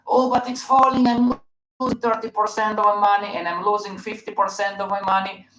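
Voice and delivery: high, mock-panicked whine; imitating a friend's panic at the losses.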